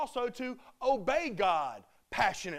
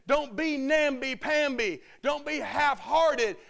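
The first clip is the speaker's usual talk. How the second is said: rising to a loud rallying push; a coach urging his team, louder at the end; urging call; 2 semitones higher, 5 dB louder than usual. Retold or imitated. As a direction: fire them up, come on. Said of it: "He said".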